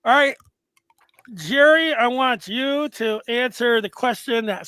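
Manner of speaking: talking around a pen in mouth. Real, not acted. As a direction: mouth partly full with pen. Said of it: "I've got a pen in my mouth".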